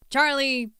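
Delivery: the boss calls in the employee; a touch of a stern boss firing him; mock stern boss. Boss scolding the dog.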